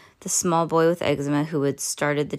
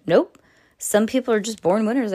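smug; 4 semitones higher, 4 dB louder than usual. Acted. Smug boastful teacher.

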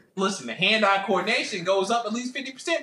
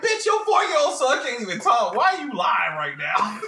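mock shout; 3 semitones higher than usual. Retort to four-year-old story.

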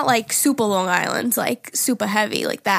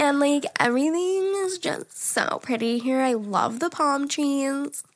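put-on breezy Valley Girl accent, stretching the last line slowly; 3 semitones higher, slower than usual. Showing her cohost a Valley Girl accent, drawn-out and gushy. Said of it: "If you do a Valley Girl accent".

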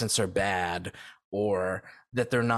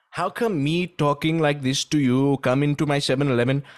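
louder, put-on mock Asian accent; 5 dB louder than usual. Shown as a demonstration. Podcaster demonstrating a racist Asian accent joke, louder mock accent. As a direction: ham up a stereotyped Asian shopkeeper accent. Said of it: "you know I'm doing an Asian guy".

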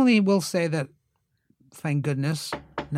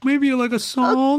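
sly schemer voice; 9 semitones higher, 7 dB louder, slower than usual. Retold or imitated. Scheming to get more lines.

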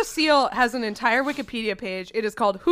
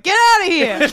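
gruff shout; 6 semitones higher, 7 dB louder than usual. Acted. Playing a clip of a talking seal.

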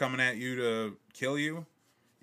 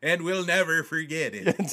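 mock solemn vow; 6 semitones higher, 7 dB louder than usual.

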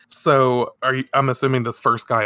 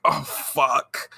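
soft unvoiced mock curse; muttered oh no; whispered curse; 4 dB quieter than usual. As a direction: whisper the curse under breath. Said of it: "Adam is like".

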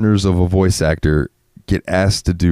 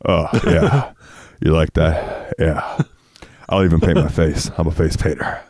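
Putty voice. Retold or imitated. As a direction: drone it out like Puddy. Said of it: "talk to me like Putty".

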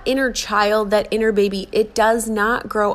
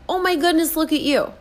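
put-on high sing-song praise for a toddler; praising a small child; 8 semitones higher than usual. Adult gushing to a little child, high and delighted. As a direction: gush over a little one, high and bright. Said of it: "little child that just wants to hear".

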